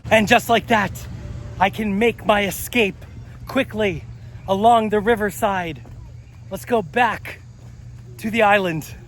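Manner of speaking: thrilled to get out; excited. Real, not acted. Bursts out of escape tunnel.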